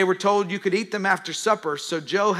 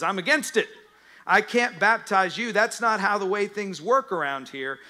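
louder, higher objection; protesting John; 4 semitones higher, 4 dB louder than usual. Acted. John refusing to baptize Jesus, louder protest. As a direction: push back hard, refusing.

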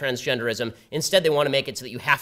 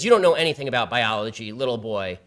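a touch lower, a mock growl at him; 4 semitones lower than usual. Debate opponent talking down to him, mild mock growl. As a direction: lightly growl it down like a bully. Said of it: "he growls at me in a voice an octave lower".

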